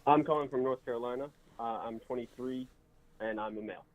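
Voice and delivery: muffled, like a hand over mouth. Real, not acted. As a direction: talk through a covered mic. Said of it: "It's muffled".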